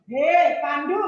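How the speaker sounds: loud, demonstrative angry call; angry demo. Shown as a demonstration. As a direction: call him out sharply as a teaching example. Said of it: "Ini kan orang marah ini".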